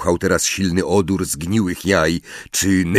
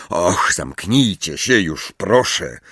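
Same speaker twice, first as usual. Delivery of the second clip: groaning; slower than usual. Acted. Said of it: "jęknął Harry".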